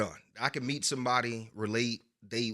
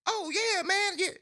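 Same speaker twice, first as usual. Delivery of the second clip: high voice of a white guy; high, chummy voice for a white buyer; mimicking the white seller; 4 dB louder, slower than usual. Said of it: "They were like".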